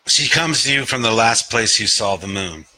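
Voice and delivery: measured recital, lingering on the verbs; deliberate open-mic poet cadence; poetry reading. Acted. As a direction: recite slowly, letting each line fall. Reads own poem aloud.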